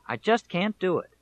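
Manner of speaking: half-voiced weepy protest, remembering tears; mild retold crying. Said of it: "And I cried".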